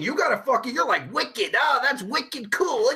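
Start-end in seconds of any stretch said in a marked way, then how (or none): 1.1-2.9 teasing imitation of a Maine accent; drawn-out Maine accent on "wicked"; mock Maine accent. Mocking partner from Maine, exaggerated Maine accent. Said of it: "you're from Maine".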